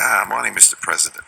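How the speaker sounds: a bad Boston accent. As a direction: greet him in a rough Boston accent. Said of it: "I've got a very bad Boston accent there".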